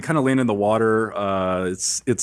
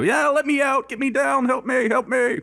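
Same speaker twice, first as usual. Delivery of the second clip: high, panicky cries for help; orcs crying for help. Acted. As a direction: squeal it like trapped young orcs. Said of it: "you hear those guys that run off go".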